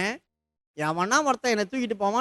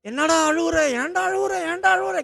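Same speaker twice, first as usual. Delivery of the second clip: higher, anxious motherly asking; a mother pressing her sobbing boy, pitched up; worried mother; 7 semitones higher than usual. Retold or imitated. Sarah asks her crying son. (கவலையான அம்மாவின் உயர்ந்த குரல்)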